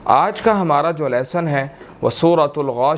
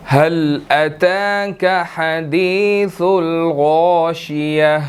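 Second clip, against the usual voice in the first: slow measured tajweed chant; Quran recitation; much slower than usual. Shown as a demonstration. Teacher recites the verse for students, slow chant. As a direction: draw each word out in melodic recitation. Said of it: "پہلی آیت کو اس کی دیکھتے ہیں".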